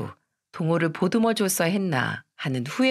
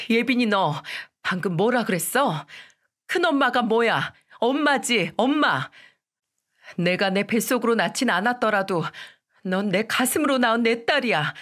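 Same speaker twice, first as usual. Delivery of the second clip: stern, higher scolding turning tender; scolding mother; 4 semitones higher than usual. Retold or imitated. Mother scolding daughter for saying big mother, stern. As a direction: scold her, then reassure her. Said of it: "예빈이에게도 똑같이 혼을 냈습니다".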